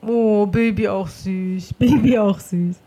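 slow, drawn-out fond coo; tender and slowed right down. Real, not acted. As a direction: melt slowly over something cute. Melting at a smacking baby.

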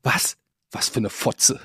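quiet aside. Retold or imitated. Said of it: "zu mir hat sie das leise ins Ohr gesagt".

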